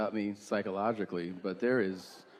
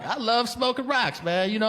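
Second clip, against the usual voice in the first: stoned driver; 9 semitones higher than usual. Retold or imitated. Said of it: "so it's actually like".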